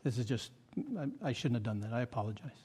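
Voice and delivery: soft, low, halting admission; contrite apology. Retold or imitated. Pastor apologizing to the delivery men, quietly contrite. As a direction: retell a humbled apology, voice dropped. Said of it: "I said that to those guys".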